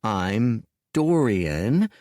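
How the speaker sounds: patient. Acted. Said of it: "finished Dorian patiently".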